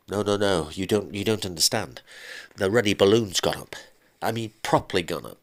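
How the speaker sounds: a man blurting out bad news in a rush; husband panics to his ex-wife about the fraud squad; panicked husband. Husband's voice again on the phone.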